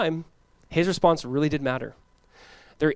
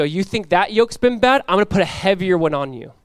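louder, higher defiant threat; mock threat; 3 semitones higher, 4 dB louder than usual. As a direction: lay it down as a loud challenge. Acted harsh threat to the people.

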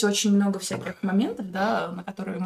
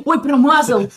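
laughing mock cry; 6 semitones higher, 12 dB louder, slower than usual. Retelling partner's mishap, laughing.

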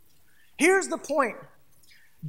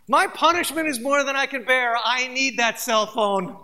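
mock whiny teen; 2 semitones higher, 6 dB louder than usual. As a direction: ham up a sulky teenager. Mock teenager complaining about phone.

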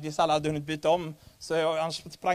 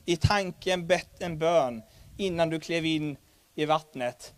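ordinary delivery

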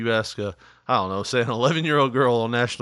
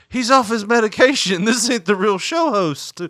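higher, louder alarmed call; mock urgent shout; 9 semitones higher, 5 dB louder than usual. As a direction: rush on stage and warn the audience. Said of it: "be like".

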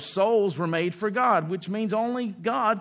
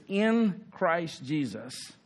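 in Christ Jesus drawn out slowly and softer; slow emphasis; 3 dB quieter, much slower than usual. Shown as a demonstration.

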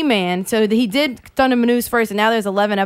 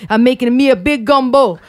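put-on Cajun accent; 3 dB louder than usual. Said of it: "they talk like that".

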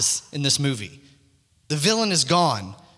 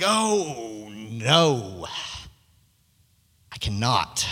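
lower, softer gloomy refusal; backing out; 7 semitones lower, 4 dB quieter, much slower than usual. Retold or imitated. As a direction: let the words sink, dropping low and quiet. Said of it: "And he's like".

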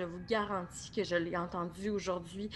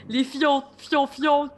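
loud, laughing through the words; laughing slang; 5 semitones higher, 10 dB louder, much slower than usual. Real, not acted. The speaker teaching crude slang, laughing loudly. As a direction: blurt it out cracking up.

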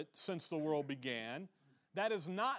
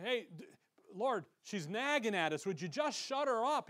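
higher, hammed-up pleading complaint; exasperated complaint; 5 semitones higher than usual. Disciples complaining to the Lord about a nagging woman, exasperated. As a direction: act out fed-up followers begging for relief.

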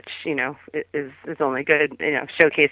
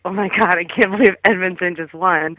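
mild mock scream, pitched up; half-hearted excited squeal of disbelief; retold scream; 3 semitones higher than usual. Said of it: "I, like, screamed".

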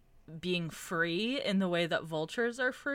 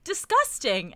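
mock disgusted reviewer; 5 semitones higher, 5 dB louder than usual. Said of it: "all of them were like".

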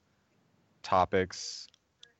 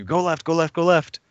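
voices in your head; 9 semitones higher, 5 dB louder than usual. Retold or imitated. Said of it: "five of the voices are telling you".

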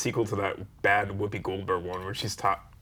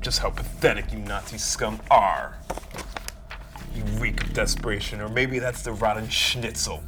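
FDR voice. Acted. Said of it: "Is that your F D R voice?".

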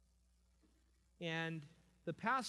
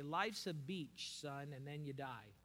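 dad's Southern saying; slower than usual. Retold or imitated. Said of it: "he would say it like this".

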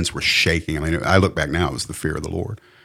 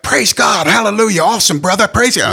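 much higher, loud, gushing preacher praise; imitating Scott; 6 dB louder than usual. Mimicking the coworker who kept preaching at him, in a high, loud, gushing voice. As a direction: ham up the overeager evangelist's hallelujahs. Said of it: "And he's like".

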